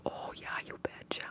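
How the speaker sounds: whispered Minnesotan accent with its distinctive O. Shown as a demonstration. Streamer showing viewers their Minnesotan O's in a whisper. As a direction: lightly show off a Minnesota O, whispering. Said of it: "it's the way I say my O's".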